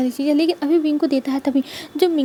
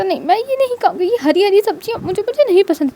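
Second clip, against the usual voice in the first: put-on childish whine; 5 semitones higher than usual. Child Wing refusing vegetables.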